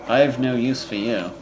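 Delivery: a hint of a cold villain voice; lightly voiced menacing emperor; cold rasping evil emperor. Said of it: "we're doing the voices now".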